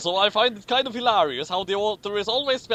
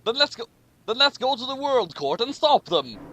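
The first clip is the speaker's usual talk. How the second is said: passionate scream; 5 semitones higher than usual. Acted. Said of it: "Suzaku screamed passionately".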